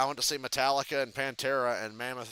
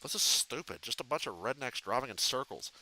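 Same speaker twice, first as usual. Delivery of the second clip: a hint of bored Butthead, mumbled; Butthead impression; 2 semitones lower, 6 dB quieter than usual. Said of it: "I look like Butthead from Beavis and Butthead".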